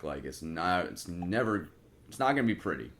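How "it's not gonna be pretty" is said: emphatic. Shown as a demonstration. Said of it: "repeated line, first take".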